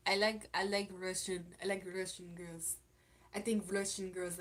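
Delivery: put-on a light, clumsy Russian accent on the words; bad Russian accent. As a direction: try a Russian accent and miss it a little. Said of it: "that's my bad accent of it".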